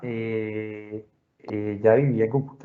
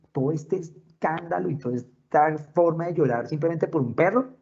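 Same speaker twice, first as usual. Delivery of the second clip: high-pitched, incredulous retold scolding; mock-outraged, rising question; scornful indignation; 5 semitones higher than usual. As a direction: imitate a sister appalled at the fuss.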